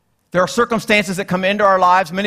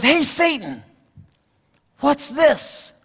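raised voice, a lightly voiced bargain hunter; curious customer; 5 semitones higher, much slower than usual. Man at Satan's garage sale asks about an item, lightly voiced. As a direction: ask it like a browsing shopper, pitched up. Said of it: "He goes".

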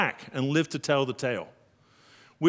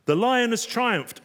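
triumphant cry; 8 semitones higher, 4 dB louder than usual. Shown as a demonstration. Contrast of lion and lamb.

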